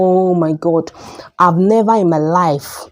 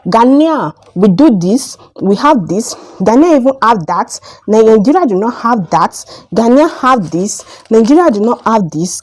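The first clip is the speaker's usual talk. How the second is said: mock boastful Ghanaian; 4 semitones higher than usual. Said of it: "come and be telling me that".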